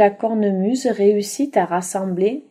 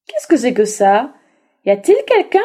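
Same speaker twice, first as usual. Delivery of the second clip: louder wolf, rising on quelqu'un; gruff wolf; 2 semitones higher, 5 dB louder, faster than usual. Acted. Wolf asking who hides in the bagpipe, suspicious. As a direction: ask it like a prowling wolf.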